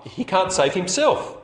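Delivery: jeering, rising at the end; mock him as the crowd would; mocking laugh. Preacher voicing the jeering crowd, sneering. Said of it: "they think it's a laugh".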